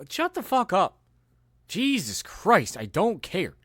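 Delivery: high, strained shout; exasperated outburst. Real, not acted. Fed up with preachy celebrities, high. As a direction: blurt it in disgust. Ranting at self-important celebs.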